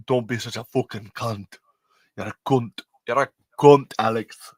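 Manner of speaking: mock British telling-off; playful insult in a put-on British accent. Host teasing a self-confessed troll called Alex, British accent. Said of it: "like, a British accent".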